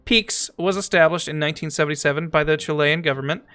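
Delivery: lilting narrator read, slowing at the end; documentary read-aloud. Acted. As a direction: read it out as an encyclopedia entry. Reads game encyclopedia entry aloud.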